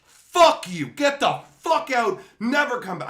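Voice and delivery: high, loud angry shouting; furious retold tirade. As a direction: act out an explosive telling-off. Acting out his furious confrontation.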